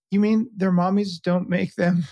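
put-on high, pleading little-boy voice; voicing his shocked toddler, high and young; imitating toddler son. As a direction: squeak it out like a teary little kid. Dad voicing toddler son's question.

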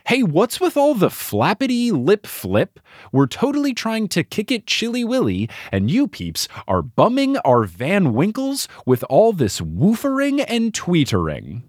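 a hint of a try-hard mid two thousands dude; wannabe slang dude. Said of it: "the way he talks is just like".

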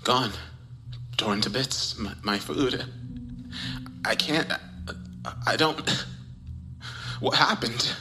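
stammering, halting panic; words breaking off in shock; shaken disbelief. Acted. Discovers food torn, panics.

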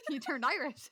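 laughing while talking. Real, not acted. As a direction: giggle through the words. Laughing mid-sentence.

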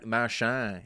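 light, unsure stab at a Boston accent; attempted Boston accent. Shown as a demonstration. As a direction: try the name in a Boston accent. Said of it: "I can't do the Boston accent".

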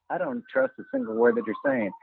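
sing-songy, high-pitched mimicry of a broadcaster; Keith Morrison. Imitating a broadcaster who doubts whoever he's interviewing, sing-songy. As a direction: lilt it like a rehearsed, condescending interviewer. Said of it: "like, sing-songy".

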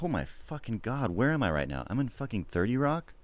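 hushed, awed excitement; soft, rising thrill of disbelief; excited. Acted. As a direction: act thrilled under your breath. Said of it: "like, excited".

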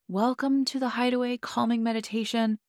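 soothing retreat-leader voice; calming meditation voice. Retold or imitated. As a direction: welcome them as if easing into a meditation. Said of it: "and the calming voice".

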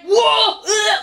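mock shock; shocked whoa. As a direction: recoil in disgust. Reaction to headless body.

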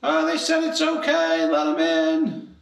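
high sing-song call, slowing at the end; lilting high call from above; voice from the tower. Acted. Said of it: "hear a voice from the tower above".

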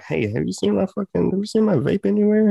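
high-pitched, pleading question; imitated anxious asking. Worker asking trusted coworkers about his vape, imitated anxious asking.

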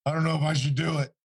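high, strained mock-tearful voice; imitated crying. Cornered bodyguard wavering before his interrogator, imitated tearfulness. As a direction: imitate a torn prisoner near tears. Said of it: "crying. He finally looks at me".

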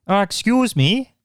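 high, slow Pontypridd lilt; Welsh accent. Retold or imitated. Neighbour at the door, high slow Welsh accent. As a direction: put on a high Fireman Sam Welsh accent. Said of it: "a Fireman Sam, Pontypridd".

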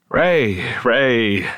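calling his name, barely holding together; voice cracking. Retold or imitated. Telling his father-in-law the news, voice cracking. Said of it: "my voice cracking".

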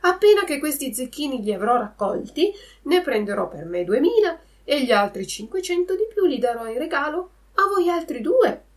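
high, quick, eager promise; excited. Acted. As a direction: rush it out bursting with joy. Pinocchio still overjoyed.

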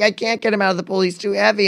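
high-pitched retold helpless protest; freaking out. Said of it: "and she's freaking out".

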